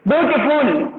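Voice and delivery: ब्यूटीफुल parted into ब्यू, टी, फुल; separated sounds. Shown as a demonstration. Teacher contrasting it with clever, ब्यूटीफुल in distinct parts. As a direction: make each sound change in ब्यूटीफुल heard. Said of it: "कितनी आवाज change हो रही है".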